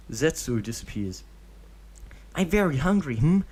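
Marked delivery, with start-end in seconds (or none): 2.3-3.4 high, louder hungry whine; a kid angling for food; whiny child. Acted. Deidara begging Obito for food, high loud child whine.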